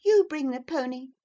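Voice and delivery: put-on high, loud child's command; bossing the servant woman; exclaimed order. A narrator's reading. Cathy orders the woman about, high and bossy. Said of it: "she exclaimed".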